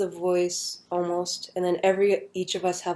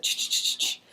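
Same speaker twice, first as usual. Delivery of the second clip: flashing noise; 4 dB quieter than usual. Retold or imitated. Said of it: "everything flashes".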